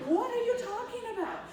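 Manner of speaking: very high, loud mock disbelief; retold shock. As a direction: squeal it in comic bewilderment. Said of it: "I mean, I was shocked".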